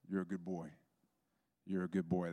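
low, gentle blessing; tender reassurance. Retold or imitated. Pastor praying over someone in English, low and tender. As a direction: repeat it calmly as a soothing prayer.

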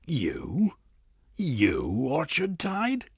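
high, breathy gasp of recognition, slowing on the name; can't believe who it is; shocked disbelief. Acted. Lord Blackanor unmasking Orchard Tide in shock, high and stunned.

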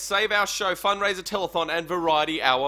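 high, loud host welcome; telethon host. Acted. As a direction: open like a TV telethon.

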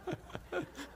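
soft, high breathy laugh; quiet chuckle. Real, not acted. Preacher amused by his own aside, soft chuckle. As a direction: let a small laugh slip out.

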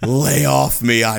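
put-on high, loud, whiny valley girl. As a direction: toss it off like a bratty mall girl. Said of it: "they're just, like, Valley girls".

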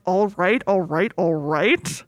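slow drawn-out all right all right; a lazy stretched Texan drawl, mock lineup suspect; imitating McConaughey's catchphrase in a police lineup. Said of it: "people being like".

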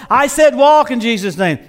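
loud insistent command, leaning on SAID; commanding shout. Retold or imitated. Wigglesworth ordering the corpse again, shouting. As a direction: demand it again, harder.

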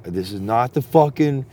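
slow, emphatic warning yell; retold holler into the dark; mock yelling. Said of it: "I'm just, I'm yelling into oblivion".

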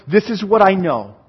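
firm statement in full voice; said out with steady conviction; rehearsed affirmation. Acted. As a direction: state it as settled fact. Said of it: "the psalmist is rehearsing and going".

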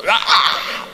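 breathy laughing replay of the shout; laughing whispered echo. Retold or imitated. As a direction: whisper the cry through laughter. Laughing recall of his shout.

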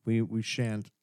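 mock solemn. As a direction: scold them like a pretend priest.

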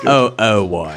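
put-on whiny kid asking why. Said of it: "here's my Homestar Runner impression".

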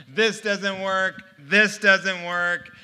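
THIS hit hard, the whole phrase drawn out slowly; slow, insistent protest leaning on THIS; emphatic disbelief. Retold or imitated. Retold protest to the therapist.

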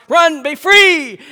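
loud, high, slow shout to the dogs; urgent shout. Retold or imitated. Pastor yelling to dogs fleeing the smoky house, urgent. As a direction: shoo them out the door. Letting dogs out, fire scare.

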